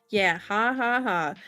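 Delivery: dry, sarcastic comeback; sarcastic mock laugh. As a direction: fake a laugh, unamused by the teasing.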